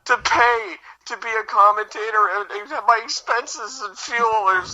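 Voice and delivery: hammed-up emotional breakdown; mock meltdown. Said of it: "another meltdown".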